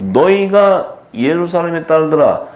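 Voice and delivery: high, slow reproachful call; Jesus. Acted. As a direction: address the crowd in drawn-out rebuke. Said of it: "예수님이 막 야단치잖아요". (느리고 높게 꾸짖듯)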